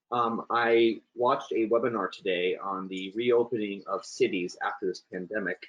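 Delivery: deliberately slowed for clarity. Real, not acted. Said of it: "make sure I'm slow".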